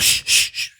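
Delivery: tiny hissed shushes; unvoiced "shh, shh, shh"; shushing. Game master voices faint tiny creatures hushing their gigglers, shushing. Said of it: "the other was just like".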